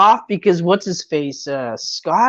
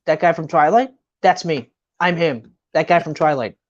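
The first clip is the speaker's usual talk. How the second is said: put-on bragging drunk guy; 5 semitones lower than usual.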